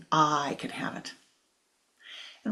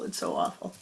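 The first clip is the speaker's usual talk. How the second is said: much lower, whispered and soft; whispered moan; 12 semitones lower, 4 dB quieter than usual. Acted. Man in the thorns whispers his misery. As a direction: breathe it out as a hopeless whisper.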